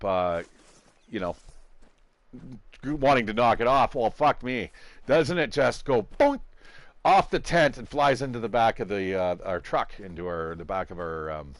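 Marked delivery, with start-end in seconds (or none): 6.2-6.4 cartoon boink. Imitates spider being flicked off.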